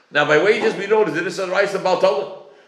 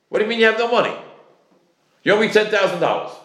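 higher-pitched emotional demand; more emotional; 5 semitones higher, faster than usual. Acted. Creditor demanding ten thousand dollars back, more emotional. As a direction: press the debtor with more feeling. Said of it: "I'm gonna be more emotional".

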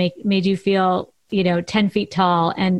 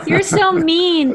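laughing mock protest, pitched up; playful laughing scold; 8 semitones higher, 4 dB louder, slower than usual. Real, not acted. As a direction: tease back through a laugh. Teasing host jokes about pay.

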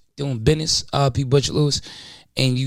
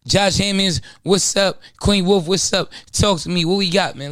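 hype host voice; 5 semitones higher than usual. Real, not acted. Hyping up co-hosts.

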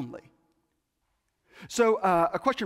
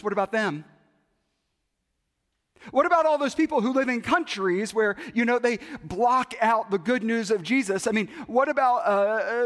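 raised, insistent questioning; Fred challenging; 4 semitones higher, 3 dB louder, faster than usual. Retold or imitated. Chair challenging his pastor with questions, raised and insistent. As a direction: push each what about harder.

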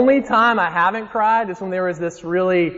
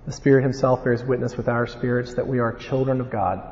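measured Bible reading; scripture reading; 2 semitones lower than usual. Acted. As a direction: read the verses with weight. Reads scripture passage aloud.

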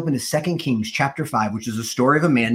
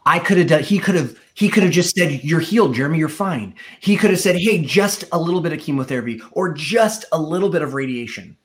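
mock indignant complaint; 4 semitones higher than usual. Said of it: "I stomped off angry".

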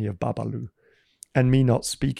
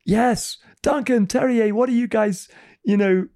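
sleepy hosts at the door; 9 semitones higher, 3 dB louder than usual. Retold or imitated. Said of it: "They're like".

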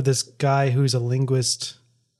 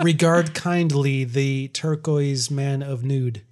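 slow mock-formal translation; slower than usual. Mock literal translation, measured delivery.

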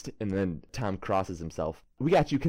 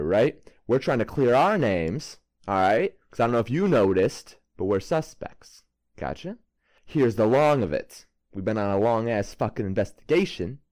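lightly Brooklyn tough-guy rant, punchy; Brooklyn wiseguy. Acted. Player briefing the suspect, mild Brooklyn tough-guy push. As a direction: lay it out like a street detective. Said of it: "A little Brooklyn humor".

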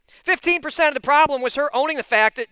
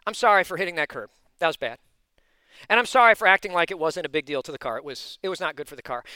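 sincere apology; 8 semitones lower than usual. Retold or imitated. Wife's calm model apology acted.

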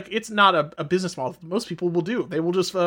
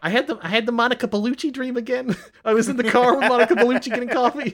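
Jay Leno impression; 4 semitones higher than usual.

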